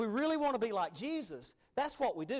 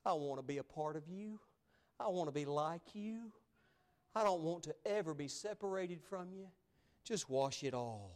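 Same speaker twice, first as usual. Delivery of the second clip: softer, slowed, heartfelt plea; tender plea; 5 dB quieter than usual. Acted. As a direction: plead quietly to be made whole. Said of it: "Peter said some of the greatest things".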